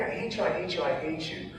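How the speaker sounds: softened replay of crying at God; tearful tantrum retold high and soft. Mourner recalls crying out at God, softened tearful tantrum. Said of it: "as I'm sitting there tantruming, crying".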